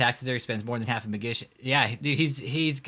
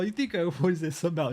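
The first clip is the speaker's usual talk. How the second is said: sensei impression; 5 semitones higher than usual. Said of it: "He's all".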